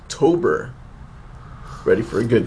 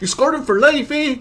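laughing. Real, not acted. Laughing over dog story.

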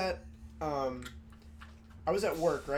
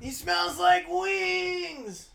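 loud, high, slow furious yelling; angry shout; 12 semitones higher, 10 dB louder, much slower than usual. Real, not acted. Yelling at a sweaty friend pressed against him, furious shout. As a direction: bellow it at him to get off.

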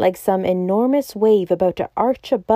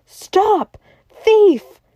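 loud high shout of alarm; 13 semitones higher, 6 dB louder than usual. A narrator's reading. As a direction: yell it from the cab at the thief.

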